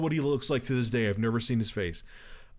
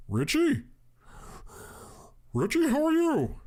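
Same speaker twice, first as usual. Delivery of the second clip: high, eerie sing-song greeting; creepy caller voice. Retold or imitated. Prank caller greeting Richie in a high eerie voice. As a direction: greet him like a creepy stranger. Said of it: "who sounds like Gary Oldman".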